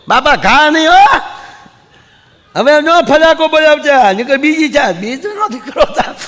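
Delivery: high, loud, slowed wailing plea; boy pleading. Retold or imitated. Boy begs his father to stop hitting him, loud high wail. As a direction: cry out to stop the beating, half laughing.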